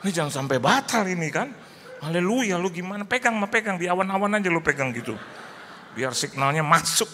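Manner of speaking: high, loud and fast, urging; hammed-up panicked pleading; frantic excitement. Wife frantic on the phone.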